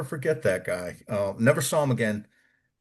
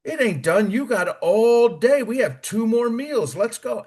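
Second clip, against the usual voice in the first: higher, louder barked orders; mock barked orders from a cook, higher pitched; barking cook; 11 semitones higher, 4 dB louder than usual. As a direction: bark at the recruit like a bossy cook. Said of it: "He says".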